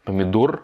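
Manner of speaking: помидор with the O held and stressed. Shown as a demonstration. Teacher stressing the O for French learners. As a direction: lean on the O in помидор. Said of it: "on insiste sur le O".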